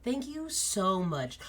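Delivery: huge wolf softly thanking a tiny guest; gentle giant. Acted. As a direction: lean down and speak tenderly. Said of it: "is like".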